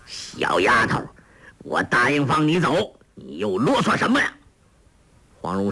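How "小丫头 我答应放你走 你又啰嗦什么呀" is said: impatient scolding. Acted. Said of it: "骂道".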